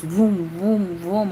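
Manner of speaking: drawn-out whooshing "vroom" repeated; slow looping vrooms, like circling energy; imitated vroom. Reader showing energy round the circle, imitated vroom.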